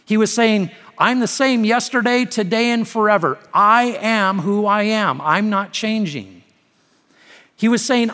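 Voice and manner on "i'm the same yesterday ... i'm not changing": higher, forceful declaration easing at the end; God, emphatic. Acted. God stating his unchanging nature, emphatic declaration. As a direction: proclaim it firmly, then settle. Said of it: "making some emphatic statements".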